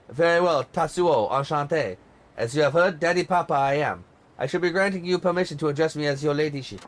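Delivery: bossy diva in a light mock French accent, sharp start. Diva scolds her tour guide, light mock French accent. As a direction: snap at him in put-on French accent, then command. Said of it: "What do you think of my French accent?".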